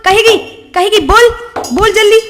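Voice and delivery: threats rising from hard to shouted; furious interrogation. Acted. Sister-in-law shouting at the frightened maid to confess.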